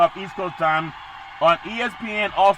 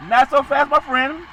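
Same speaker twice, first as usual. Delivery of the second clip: a hint of a TV pundit; catchphrase; 6 semitones higher, 4 dB louder than usual. Host answers his own pick with a mock catchphrase. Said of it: "Corso catchphrase".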